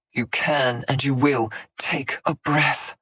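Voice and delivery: firm, slow order; command. Acted. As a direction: make it an order. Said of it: "his tone sharpening into a command".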